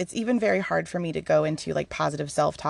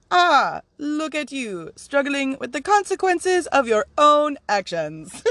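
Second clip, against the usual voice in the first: higher, sing-song mock coo; playful teasing; 7 semitones higher, 3 dB louder, slower than usual. Spirit to the speaker struggling with consequences, playful teasing. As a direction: draw it out like fond ribbing.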